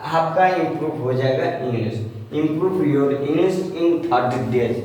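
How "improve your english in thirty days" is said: reading a title out very slowly while writing it; teacher writing the thumbnail title on the board; slow dictation. Shown as a demonstration. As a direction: dictate each word as you write it. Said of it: "Already मैंने लिख रखा है".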